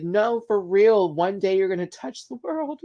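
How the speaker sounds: mom insisting. Retold or imitated. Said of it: "And she'd be like".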